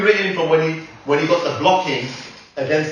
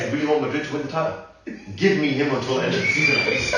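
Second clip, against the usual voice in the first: Xavi impression; 4 dB quieter, faster than usual. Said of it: "You know what Xavi's gonna say".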